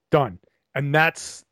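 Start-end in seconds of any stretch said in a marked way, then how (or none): 0.1-0.4 "Done" with a firm falling tune; final falling word. Shown as a demonstration. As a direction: close it off with a drop. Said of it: "that's the end of my sentence".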